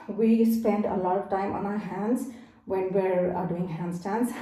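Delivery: slightly winded, catching breath. Real, not acted. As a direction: talk while still out of breath. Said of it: "I'm a little bit out of breath".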